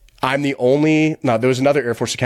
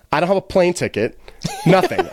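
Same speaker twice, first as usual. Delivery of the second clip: laughing; 6 semitones higher than usual. Real, not acted. Laughing at absurd situation.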